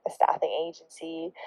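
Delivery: unvoiced aside, can't believe it; incredulous whisper. Real, not acted. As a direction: whisper it in disbelief. Whispered repeat in disbelief.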